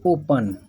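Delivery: "ओपन" with a short 'uh' in the second syllable; open as O-pan. Shown as a demonstration. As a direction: say "ओपन" as O-pun. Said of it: "इसको पढ़ते हैं ओपन". ("ओपन" में 'पन' बोलें)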